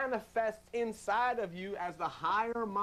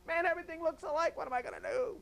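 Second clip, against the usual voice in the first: higher, lost and confused; bewildered; 10 semitones higher, faster than usual. Retold or imitated. Preacher voicing someone lost in the desert, bewildered. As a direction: wander lost, unsure which way.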